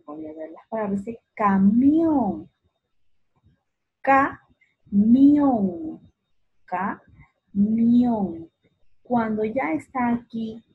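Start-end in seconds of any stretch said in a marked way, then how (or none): 1.3-8.5 "camión" slow, MIÓN long and loud; sílaba tónica marcada. Shown as a demonstration. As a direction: split ca-MIÓN, swelling on the last syllable. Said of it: "es la sílaba tónica". ("camión" alargando con fuerza MIÓN)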